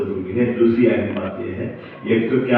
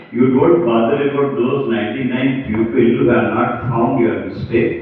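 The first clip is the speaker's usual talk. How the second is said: slow, deliberate English; much slower than usual. Shown as a demonstration. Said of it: "कितनी बड़ी बात है".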